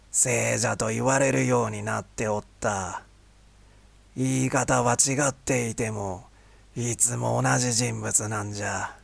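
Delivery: unhurried, like a wise elder; old man voice. Acted. Old vendor explains the traveler.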